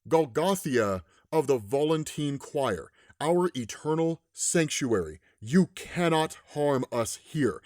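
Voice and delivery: measured, ominous pronouncement from a monster; Infernal Hulk. Retold or imitated. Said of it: "Infernal Hulk starts taunting him back".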